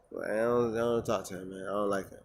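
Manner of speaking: low, soft deadpan retort; straight-faced. Retold or imitated. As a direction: say it deadpan, no reaction. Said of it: "said it with the most straight face".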